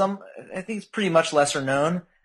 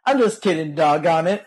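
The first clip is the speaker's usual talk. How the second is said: quoting a song lyric; 4 semitones higher than usual. Retold or imitated. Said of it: "He's got a".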